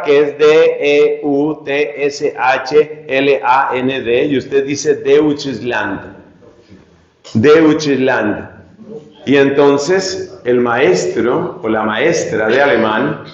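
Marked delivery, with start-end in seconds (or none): 4.9-8.5 Deutschland read slowly letter by letter, "de-ut-chis-land"; wrong German pronunciation. Shown as a demonstration. Learner reading German by spelling, Deutschland mispronounced as de-ut-chis-land. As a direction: say Deutschland with Spanish vowels, E and U apart. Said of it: "Así no se pronuncia".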